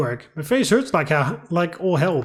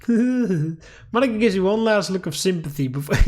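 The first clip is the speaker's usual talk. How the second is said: laughing. Real, not acted. Laughing while reading narration.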